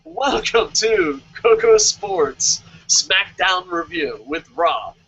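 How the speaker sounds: slow drawn-out announcer intro; mock announcer. Host welcoming listeners, slow announcer voice. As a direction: stretch each word like a ring announcer. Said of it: "announcer opening the show".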